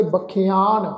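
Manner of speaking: ਬਖਿਆਨ as ba-khi-aan; half-yayya reading. Shown as a demonstration. Teacher explaining the formula, ਬਖਿਆਨ said as ba-khi-aan. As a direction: say ਬਖਿਆਨ with short i after kh, then long aa. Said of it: "ਲਗਾ ਕੇ ਉਚਾਰਨ ਕਰਨਾ ਹੈ".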